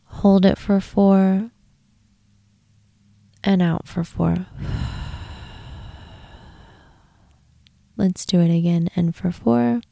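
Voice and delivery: calm guided-meditation voice, unhurried with long pauses. Real, not acted. Host guiding listeners to release tension, guided meditation. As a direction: lead them gently into relaxation, pausing between phrases.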